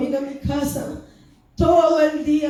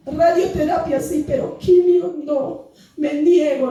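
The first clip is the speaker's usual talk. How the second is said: raised pitch, firm plea of refusal; emphatic retold protest; retold defiant refusal; 3 semitones higher than usual. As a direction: refuse it outright, pleading with God.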